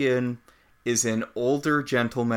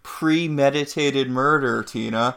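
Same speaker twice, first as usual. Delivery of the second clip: holier than thou; 3 semitones higher, 4 dB louder than usual. Pretend. Acting out holier-than-thou Mary Margaret.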